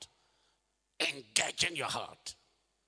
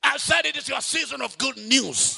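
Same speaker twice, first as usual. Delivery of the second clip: building to a full preaching shout; louder and louder, preaching at full force; getting louder; 11 semitones higher, 12 dB louder than usual. Acted.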